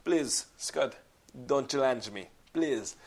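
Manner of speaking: put-on lightly accented plea, challenge as shallenge; teasing hint of Van Damme accent; mock Van Damme line. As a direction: joke at a friend in the villain's accent. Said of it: "I was like".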